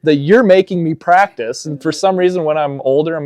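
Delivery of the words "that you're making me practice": laughing mock anger. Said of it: "And you're like".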